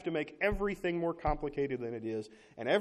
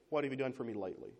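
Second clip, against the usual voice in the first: 1 quick offhand gripe; 4 dB quieter, faster than usual. Retold or imitated. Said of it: "the way Americans more often say it".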